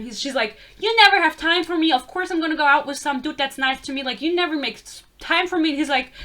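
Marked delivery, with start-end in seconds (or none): 0.8-5.7 mock yell, easing off after the first burst; acted yelling. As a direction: mimic an angry girlfriend telling him off. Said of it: "She yells at him".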